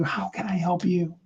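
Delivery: breathy whispered offer of help. Shown as a demonstration. Coach demonstrating a whispered offer to help. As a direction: whisper it close, like a secret. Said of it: "You can whisper to somebody else".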